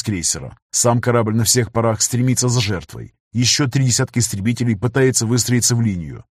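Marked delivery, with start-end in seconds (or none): none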